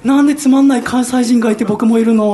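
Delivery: loud, high incredulous question through laughter; laughing disbelief. Retold or imitated. Asking the listeners why he's on the trip too, loud laughing disbelief. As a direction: protest in laughing dismay.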